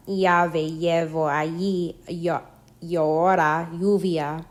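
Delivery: Llave, llevo, llora, lluvia with LL like the Y in yes. Shown as a demonstration. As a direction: say allí and lluvia with a y-glide for LL. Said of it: "either like Y Y as in say yes".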